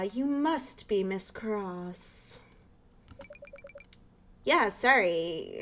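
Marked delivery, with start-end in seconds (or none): 0.0-2.4 put-on lightly done posh British old lady, slow; a hint of a proper British neighbor. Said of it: "like, a posh British voice".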